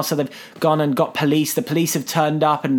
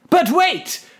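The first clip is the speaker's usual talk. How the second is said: high, mock-dramatic announcement; hammed-up storyteller's big reveal; spring the twist theatrically; 11 semitones higher than usual. Teller announces a plot twist.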